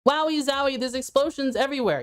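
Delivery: repeated mock-excited test line; put-on thrill for a mic check; super excited. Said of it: "Talk with the same energy".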